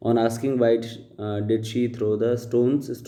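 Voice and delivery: slow, deliberate read-aloud of the paragraph; slow dictation reading. Shown as a demonstration. Teacher reading the paragraph aloud to students, slow and deliberate. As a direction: read each word out slowly for the class. Reads slowly.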